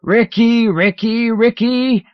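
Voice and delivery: high loud howling cries. Acted. Ron howling for Ricky, high loud cries. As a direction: howl the name over and over. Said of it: "he is howling".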